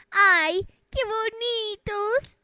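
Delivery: high, very slow, teary gushing; tearful swoon. Pretend. Onlooker overcome watching the couple hug, high tearful swoon. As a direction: gush until almost in tears. Cooing, near crying.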